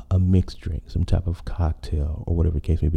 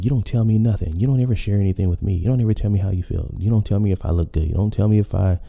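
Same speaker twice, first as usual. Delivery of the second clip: mock list of grievances rattled off fast; a hint of an annoyed girlfriend; imitating a partner's complaints; faster than usual. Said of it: "because they're saying".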